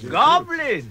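sharp, high disbelieving echo; incredulous. Acted. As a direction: throw the word back in disbelief. Beorn startled by goblin mention.

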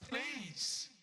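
screaming in terror, high-pitched; terrified begging, voice breaking upward; scared horror game streamer. Real, not acted. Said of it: "That actually jump scared me".

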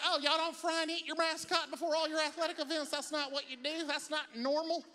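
high-pitched, incredulous questioning; mock surprise. Carolina fans questioning outsiders about game-day customs, high-pitched mock surprise. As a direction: act baffled, pitched well up.

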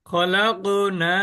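slow খলাকনা with a bouncing ক; drawn-out খলাকনা, ক springing up; repeat after me. Shown as a demonstration. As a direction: model খলাকনা for the class to echo. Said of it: "আমার সাথে সবাই বলবেন".

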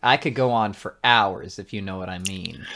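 boast, then drop the voice knowingly; lightly acted flirty wink; suggestive bragging. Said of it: "And he winks at you again".

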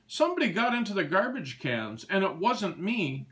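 a goat protesting his innocence; goat crying out. A narrator's reading. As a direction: blurt it out fast like an upset goat. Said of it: "cried Goat Walter".

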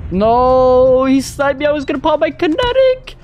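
high-pitched wailed protest; anguished outcry. Real, not acted. Killed just before earning streak reward.

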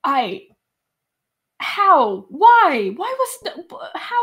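rising, high disbelieving questions; incredulous sputter. Acted. GM incredulous in-character.

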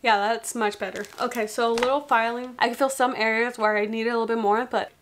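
wearing clear dental trays; speaking through teeth trays; with aligners in. Real, not acted. Seen 1: Inserts aligner at -1.0, then talks with trays on her teeth.

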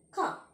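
ka said as a short hard k sound; phonic sound of C. Shown as a demonstration. Teacher shows the class the phonic sound of C, ka. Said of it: "the phonic sound is C".

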